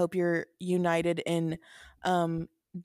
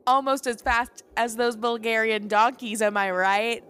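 excited; 3 semitones higher, 5 dB louder than usual. Acted. Finally nailing the outro line.

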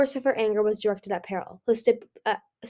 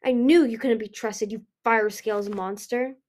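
spat; 4 dB louder than usual. Acted. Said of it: "Ruby spat".

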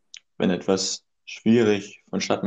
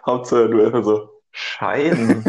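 laughing; 4 dB louder, slower than usual. Real, not acted. Laughs at his own joke.

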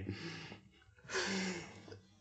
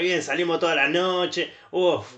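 higher, breezy partner bragging; mock carefree reply; 4 semitones higher than usual. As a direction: toss it off cheerfully, a little smug. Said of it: "recibís una carta y uno dice".

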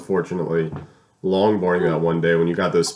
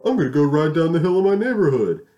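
eager; 9 semitones higher, 5 dB louder than usual. Retold or imitated. Retold own cocky thought.

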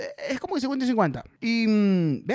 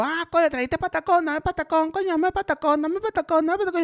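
higher, insistent pleading for patacón; pushy begging; 8 semitones higher than usual. Retold or imitated. Caracas locals pestering the Maracucho for patacón, high begging. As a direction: nag him like a greedy Caraqueño.

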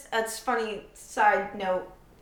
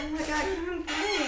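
after laughing hard; 6 semitones higher, 5 dB quieter than usual. Real, not acted. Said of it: "let me collect myself".

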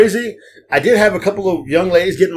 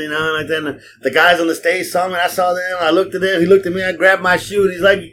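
higher, hyped-up retelling of a fan's bragging; excited passenger; 5 semitones higher than usual. Retold or imitated. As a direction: brag about the signed shoe like the passenger. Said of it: "he went".

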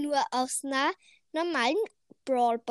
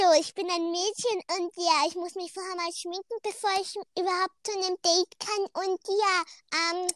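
put-on girl voice; 5 semitones higher than usual. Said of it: "ich rede jetzt wie ein Mädchen".

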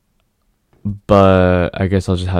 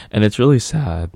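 sad voice; 2 semitones higher than usual. Real, not acted. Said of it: "did you, like, hear my voice, like, go? I went sad".

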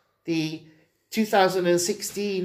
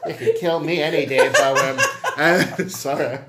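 laughing; 3 dB louder than usual. Real, not acted. Joking with a laugh.

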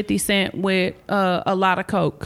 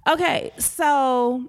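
K D; 3 semitones higher, much slower than usual. Acted. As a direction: stretch the words out slowly, pitched up. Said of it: "here, let me be K D".

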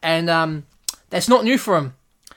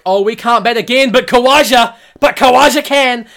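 higher, louder mock whine; mock Australian batsmen; 6 semitones higher, 8 dB louder than usual. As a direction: give up, then point to Khawaja. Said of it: "Australia like".

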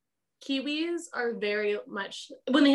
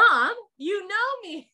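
high, loud, drawn-out playful protest; mock insistent plea; 11 semitones higher, 6 dB louder than usual. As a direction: playfully imitate someone insisting they are known. Listener playfully acts out her plea.

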